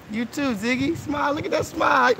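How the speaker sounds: high, bright shout coaxing a smile; excited call. Real, not acted. Hyping kids on camera.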